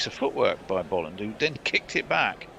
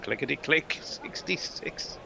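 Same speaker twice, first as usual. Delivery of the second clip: slow, drawn-out bingo call; bingo caller; 4 semitones higher, 5 dB quieter than usual. Shown as a demonstration. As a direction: call the number like a bingo hall. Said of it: "you've gotta go into bingo caller mode".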